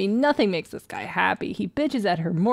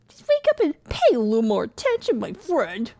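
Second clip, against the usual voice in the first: high-pitched mocking imitation; mocking reread; 4 semitones higher than usual. Player rereading a coworker's email back, mockingly. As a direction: mimic the email in an exaggerated high voice.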